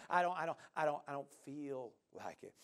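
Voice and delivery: low, soft, dejected mock voice; imitating a listless, unwilling believer; reluctant mumbling.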